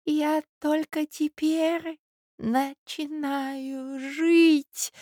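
put-on high, very slow choked old man; high slow rapturous mumble; mumbling in rapture. A narrator's reading. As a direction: gush it breathlessly like an old man in love. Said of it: "бормотал он, захлёбываясь от восторга".

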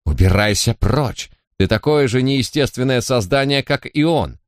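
shrill cry climbing high at the end; angry screaming. Acted. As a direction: shove him off with a yell. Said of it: "завопила". (гневный вопль)

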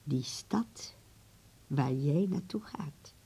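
hint at it in a whisper; secretive whisper. Acted. Grandmother promising help for Berlin, whispered.

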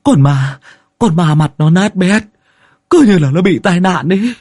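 high, stammering frightened account; scared man pleading with the master; terrified villager. A narrator's reading. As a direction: pour it out in a panicky high wail. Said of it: "Anh Tín đã hại lắm".

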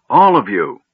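loud, forceful order; thundering command. A narrator's reading. Mage clearing everyone from the room, thundering. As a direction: drive it out hard and loud. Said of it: "the mage thundered".

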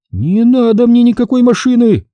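high, loud retort; sharp retort. A narrator's reading. Trader sharply refuses the car offer. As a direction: cut her off sharply. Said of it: "резко ответила она".

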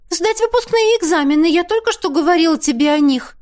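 высокое обиженное восклицание; выше и громче, с обидой в голосе; обиженно. A narrator's reading. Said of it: "обиженно воскликнула Теа". (обиженный возглас Теа)

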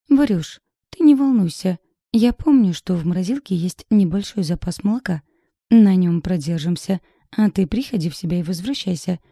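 выше и громче, бодро успокаивает; подбодри подругу в беде; бодрая сестра. Acted. Голос сестры Кира по телефону. (сестра мужа бодро успокаивает по телефону)

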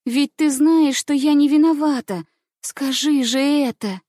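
high, loud pleading; desperate plea. A narrator's reading. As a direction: beg her to speak up for you. Błaga koleżankę o obronę.

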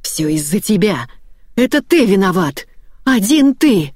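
building hysteria, pointing blame; screaming. A narrator's reading. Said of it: "Жена принялась кричать".

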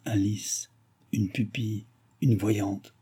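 soft, radiant murmur of delight. A narrator's reading. Balsamo murmurs in joy over the girl, softly. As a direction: breathe the words in quiet wonder. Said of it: "Balsamo radieux murmura".

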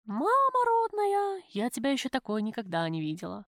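hoch und gedehnt vor Schreck; Mama rodnaja lang hochziehen; erschrockene Freundin. Acted. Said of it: "знакомый Любкин голос".

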